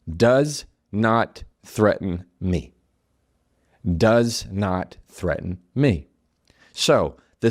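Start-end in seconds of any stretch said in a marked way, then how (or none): 0.1-2.7 slow dictation. Shown as a demonstration. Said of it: "I want you to write". 3.8-6.1 slow repeat. Shown as a demonstration. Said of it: "I want you to write".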